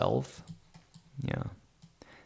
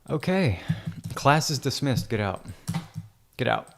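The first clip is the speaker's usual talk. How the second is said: loud, higher mock teacher bark; mock teacher dismissal; 4 semitones higher, 3 dB louder than usual. Editor jokingly dismissing his imaginary class, loud. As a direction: throw them out of class, hammed up.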